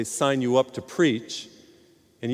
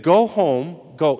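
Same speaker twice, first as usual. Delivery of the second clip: louder command; 6 dB louder, slower than usual. Retold or imitated. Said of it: "what Jesus said to the man".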